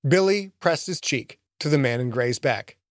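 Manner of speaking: ordinary delivery, nothing marked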